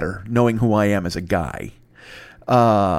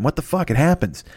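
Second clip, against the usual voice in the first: normal talking voice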